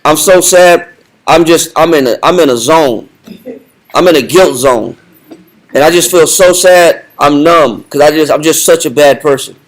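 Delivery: mild mock moping, a hint of put-on sorrow; lightly acted self-pity; fake sad show. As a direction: play a hypocrite hamming up his guilt. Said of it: "That's part of the show".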